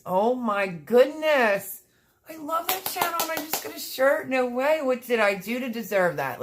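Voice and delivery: high, loud, slowed, near tears; choked up with real gratitude; overwhelmed joy. Real, not acted. Thanking the channel for a surprise shirt, overwhelmed near tears. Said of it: "I'm sniffling".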